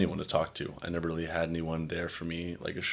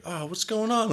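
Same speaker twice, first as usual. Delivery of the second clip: mock concerned surprise. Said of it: "they're like".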